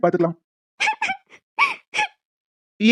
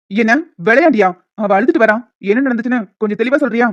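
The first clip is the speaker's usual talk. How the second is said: louder, demanding questions; angry confrontation; 5 dB louder than usual. Acted. Friend angrily demands Sathya explain why she is crying. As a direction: challenge him hard.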